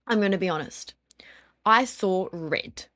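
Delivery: slow hushed admission; whispered confession. Real, not acted. Confessing losing her temper.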